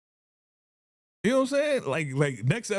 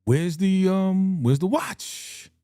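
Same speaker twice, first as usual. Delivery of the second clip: higher and louder, slow searching "where's the watch"; questioning girlfriend; 7 semitones higher, 4 dB louder, much slower than usual. Retold or imitated. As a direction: act out the puzzled girlfriend hunting for the watch. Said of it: "she was like".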